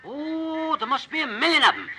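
high, breathless wonder; awed excitement. Acted. McGee spotting a huge flight of ducks, high awed excitement. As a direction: gasp at the sight of the flock.

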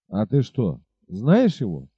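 captain cooled down, asking the innkeeper; calmer tone. Acted. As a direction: ask without anger now. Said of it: "спросил он уже совсем другим тоном".

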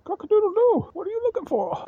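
squeaky high cartoon rooster crowing; very high, loud rooster impression. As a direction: crow it out like a big rooster greeting someone. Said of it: "Big-ass fucking rooster".

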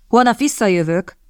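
"Holnap visszajövök" said with firm emphasis; "Holnap visszajövök", pointed and insistent; emphatic. A narrator's reading. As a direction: stress "Holnap visszajövök" as a warning. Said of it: "hangsúlyozta Lawrence".

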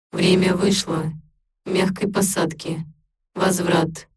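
slow cold machine announcement; a system voice counting down; metallic robot voice. A narrator's reading. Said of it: "Металлический голос резанул по ушам".

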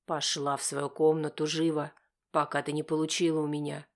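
low, menacing order through gritted teeth; a hint of a seething father; hissed through teeth. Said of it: "цедит Серёжа сквозь зубы".

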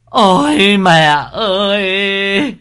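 high, loud, slow, drawn-out lament; hammed-up wailing. Eldest son at his mother's bedside, wailing theatrically. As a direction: wail for the dead mother like a show. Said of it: "mà mếu máo".

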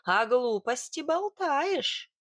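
indignant, stretched-out rebuke; angry. Acted. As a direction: draw out the accusation. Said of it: "гневно прищурилась я".

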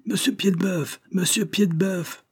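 high-pitched calling, at moderate volume; yelling. A narrator's reading. Voices outside hammering on the boss's door, yelling. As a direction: call out high and urgent, stretching the name. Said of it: "tandis que des voix hurlaient".

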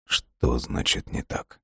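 slow hushed whisper. A narrator's reading. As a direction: breathe it out, barely audible. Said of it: "Так же тихо отозвался".

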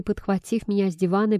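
ordinary delivery, nothing marked

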